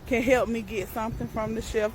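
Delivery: polite request demo. Shown as a demonstration. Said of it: "the correct thing to say is".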